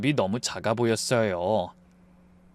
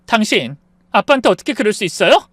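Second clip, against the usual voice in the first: louder, fast, higher furious wife; angry outburst; 6 semitones higher, 6 dB louder than usual. Acted. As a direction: fire it at him fast and loud. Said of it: "제가 일방적으로 화를 냈죠". (아빠 일로 남편에게 빠르고 크게 화내는 아내)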